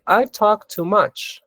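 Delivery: slow, careful teacher read; slow clear example; slow model sentence. Shown as a demonstration. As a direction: spell it out slowly for learners. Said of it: "Y aquí un ejemplo".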